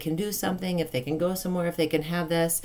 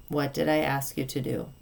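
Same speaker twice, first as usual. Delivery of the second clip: loving kindness; 3 semitones lower than usual. Shown as a demonstration. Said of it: "with loving kindness".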